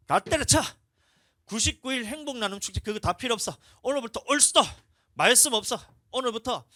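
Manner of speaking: furious shout. Retold or imitated. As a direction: bark it out like an enraged preacher quitting. Pastor acting out his angry outburst. (훨씬 높고 크게 분노하며 외치듯)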